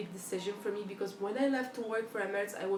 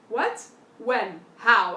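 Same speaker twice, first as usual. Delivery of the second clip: loud startled questions, each louder; shocked mom; 11 dB louder, much slower than usual. Retold or imitated. Mom hearing the Dubai news, shocked. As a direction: fire off questions in disbelief.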